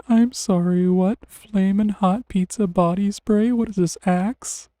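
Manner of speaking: loud, incredulous, slowed down; can't believe what you're reading; amused disbelief. Real, not acted. Finds absurd body spray.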